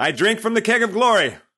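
pompous, grand god voice, loud and high. Playing a god-king of Photoshop: mock grand god voice. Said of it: "For I am God Boo Ray".

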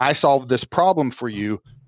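plain

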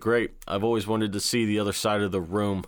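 plain

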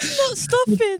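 high voice, cracking up, laughing through the words. Answering another speaker after a long laughing fit: laughing while talking. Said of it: "you're absolutely cracking up here".

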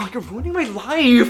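put-on very high, loud angsty teenage whine. Retelling how Lindsay Lohan acts in the opening scene: imitating an angsty teen. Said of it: "that really angsty teen".

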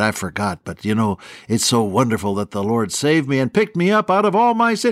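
hoarse theatrical whisper. Retelling a man told to keep quiet for sleeping people, in a hoarse stage whisper. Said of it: "he lowered his voice to a hoarse stage whisper".

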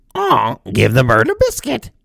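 swooping, sing-song, bird-like talking-parrot voice. Retelling the voice heard from behind the door, in a parrot voice. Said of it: "the voice changed from the deep voice".

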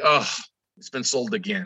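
deflated words on an exhale. Retelling a borrower's reply on the phone: imitating a deflated exhale. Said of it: "you can hear the breath just go out of her".

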